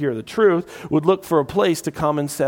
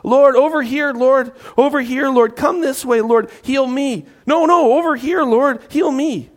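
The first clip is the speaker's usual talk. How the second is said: high and loud pleading calls; crowd yelling; 8 semitones higher, 5 dB louder than usual. Retold or imitated. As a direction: shout over the crowd to be noticed. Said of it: "I imagine this large crowd of people yelling, calling".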